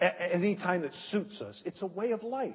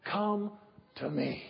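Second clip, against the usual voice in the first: pleading God voice; 3 dB louder, slower than usual. Pretend. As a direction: coax gently, then build to a loud appeal. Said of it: "is watching us going".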